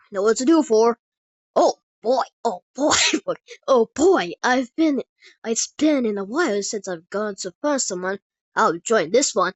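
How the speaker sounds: loud, lightly voiced psychopathic fighter. Summoned fighter joins the battle, loud with mildly psychopathic glee. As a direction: relish the fight with a touch of madness. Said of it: "psychopathic voice tone".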